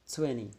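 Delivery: "Twenty" with the weight on "twen", "ni" light and falling; model word for repeating. Shown as a demonstration. Teacher models the word for students to repeat, stress on TWEN. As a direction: say "Twenty" clearly for the class, TWEN strong, ni weak. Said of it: "let's pronounce together".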